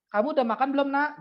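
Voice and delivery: a light imitation of a fond parent; caring parent. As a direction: ask your child kindly. Parent asking child.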